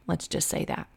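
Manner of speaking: softly whispered, voiceless; whispered aside. Real, not acted. Speaker confiding her unwell soul, whispered. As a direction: breathe it out as a secret.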